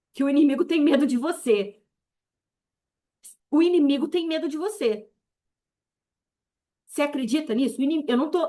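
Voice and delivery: declaring authority in a rising sermon; fervent preaching. Acted. Preacher telling believers the enemy fears them, fervent. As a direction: proclaim it with fervent conviction.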